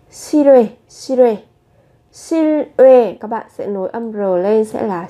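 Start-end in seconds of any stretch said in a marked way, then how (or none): 0.1-3.2 실외 said as si-rwe, the l carried over as R; linked pronunciation. Shown as a demonstration. Teacher models linking 실외 for students, si-rwe, louder. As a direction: link 실외 smoothly into si-rwe. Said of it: "Các bạn nối âm bắt chim lên".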